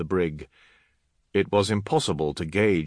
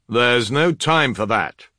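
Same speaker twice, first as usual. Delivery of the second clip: loud, raised, forceful objection; urgent command; 4 semitones higher, 6 dB louder than usual. Acted. Commander overruling the adepts' repair plan, urgent. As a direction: cut them off with a firm raised voice.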